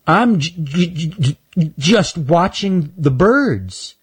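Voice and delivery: high, slow, stuck on the j; stuttering squirrel. Acted. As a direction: stammer shyly, high and slow. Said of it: "Why do you talk like that?".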